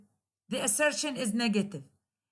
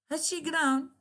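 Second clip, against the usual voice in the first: "Has she grown?" high, she hit hard; surprised exclamation stressing she; emphatic stress; 4 semitones higher than usual. Shown as a demonstration. Teacher models emphatic stress to show surprise. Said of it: "operator and subject usually receive emphatic stress".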